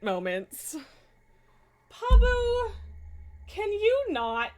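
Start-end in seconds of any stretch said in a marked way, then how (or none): 1.9-4.5 high, loud call across the room; loud high call to a misbehaving cat. Real, not acted. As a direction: call the cat's name sharply. Calling the cat off the foam.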